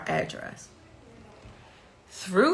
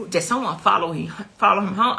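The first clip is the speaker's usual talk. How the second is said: louder, frantic retold question; 5 dB louder, faster than usual. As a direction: fire it off like a panicked mother. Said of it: "I'm frantic, like, I'm going off".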